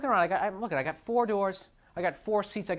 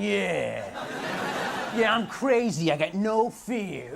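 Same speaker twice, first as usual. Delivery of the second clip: mock bravado from a scrawny kid; dork voice; much slower than usual. Comic mimicking a dork in a slogan shirt, mock tough. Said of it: "sixty-pound dork standing there wearing the shirt going".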